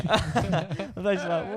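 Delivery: can't hold the laugh in; real laughter breaking through the words. Real, not acted. Laughing at his own story.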